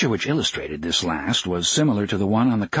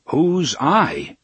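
higher, mildly stern question; 5 semitones higher, 3 dB louder than usual. A narrator's reading. Engineer suspects a joke, mildly stern demand. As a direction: demand it in a big stern voice, understated. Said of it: "sternest voice".

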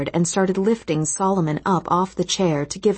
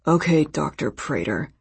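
sarcastic; 2 semitones lower than usual. A narrator's reading. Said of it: "he said with sarcasm".

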